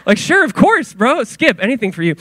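high-pitched, mock-casual eagerness; faking calm. Teen accepts his idol's training offer, faking calm. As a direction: act cool while clearly too keen. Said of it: "Say calm".

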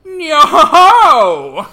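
long drawn-out pirate yell, high and loud. Acted. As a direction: bellow it like a swaggering pirate. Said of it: "I'm actually gonna do something a little different".

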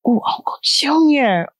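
moved, breathy whisper; tearful whisper. Real, not acted. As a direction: whisper it, almost in tears. Moved by uncle's age.

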